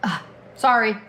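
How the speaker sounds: apologizing with mouth full. Real, not acted. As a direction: mumble through a bite of food. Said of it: "I don't like to talk with my mouth full".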